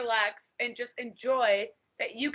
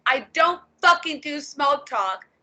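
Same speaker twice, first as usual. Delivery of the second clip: blunt profile warning; 3 semitones higher, 4 dB louder than usual. Retold or imitated. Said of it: "in big bold letters on my FetLife profile".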